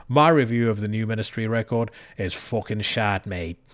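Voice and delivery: mock Manchester accent, badly done; a rough attempt at a Manc twang. Podcaster mocking a band in a bad Manchester accent. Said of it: "a Manchester accent".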